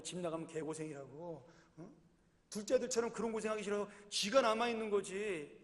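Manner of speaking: ordinary delivery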